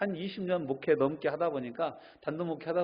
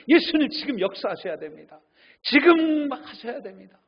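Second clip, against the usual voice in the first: higher, louder insistent prayer; demanding loud prayer; 8 semitones higher, 9 dB louder than usual. Retold or imitated. Believer commanding Jesus in prayer, loud insistent demand. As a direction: order Jesus to act now. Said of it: "예수님께 막 기도하는 거예요".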